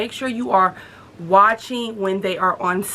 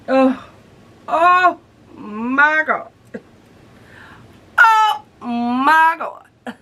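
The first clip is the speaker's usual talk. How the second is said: shrieking jackpot winner; 5 semitones higher, 4 dB louder, much slower than usual. Real, not acted. Excited squeal over new pants.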